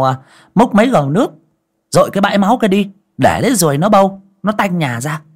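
high, loud, rushed orders; callous mistress. Acted. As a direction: bark chores over a corpse, unbothered. Wife orders body disposed.

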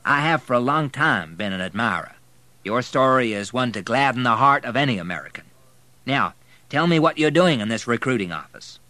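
brisk, hearty and loud; full of bustling energy; energetic. A narrator's reading. Army general greeting an admired recruit, energetic and loud. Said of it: "exuding energy".

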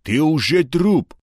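drawn-out contempt; contemptuous hiss. A narrator's reading. Crook threatening Egor, scornful. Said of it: "с презрением прошипел Нос".

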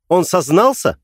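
high, loud and demanding; mother demands loudly whether he confessed; loud question. Acted. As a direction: blurt it out loud at him. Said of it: "громко спросила она".

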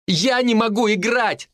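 high, slow despairing scream. A narrator's reading. Vika after smashing her guitar, screaming. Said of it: "закричала она".

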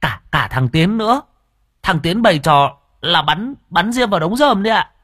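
put-on scared child. A narrator's reading. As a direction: stammer out the blame like a scared kid. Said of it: "thấy ông Nghĩa nổi giận thì sợ lắm". (giọng trẻ con sợ hãi, lắp bắp)

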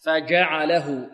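فجعله slowly, with a pure mid-tongue jim; jim without dal. Shown as a demonstration. Teacher shows the jim's true origin, pure jim in فجعله. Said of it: "لا نشمها".

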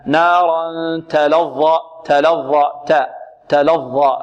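تلظى slowly with a light clean ta, no s; correct ta. Shown as a demonstration. Teacher slowly giving students the corrected ta. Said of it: "خطأ، لا".

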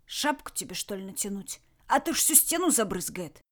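musing, mildly pensive threat. Acted. Red aiming at the dictator's forehead, musing. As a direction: wonder aloud, taking your time. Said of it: "Задумчиво проговорил".

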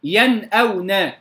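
ينأون slowly, crisp noon without held hum, then hamza; clear izhar. Shown as a demonstration. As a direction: give ينأون a clean still noon before the hamza. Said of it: "خطأ". (إظهار النون في ينأون بلا غنة زائدة)

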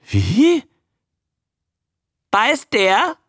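high, croaked creature question; loud-ish high newt squawk; croaking newt. A narrator's reading. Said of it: "krächzte der Molch".

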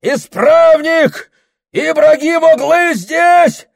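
very high, loud cry for help; panicked yell. Acted. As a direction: scream down the phone. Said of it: "орёт". (Прохор в ужасе орёт в телефон)

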